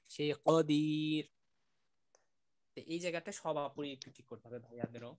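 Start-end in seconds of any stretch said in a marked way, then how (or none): 0.1-1.2 কদির drawn out slowly with a hard throat ক; slow teaching demo of কদির; throaty qaf. Shown as a demonstration. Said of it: "একটা গলা থেকে একটা কদির".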